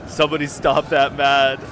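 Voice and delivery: loud pleading call to the troops; desperate yell. Real, not acted. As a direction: cry out for anyone to stop him. Begging troops to stop him.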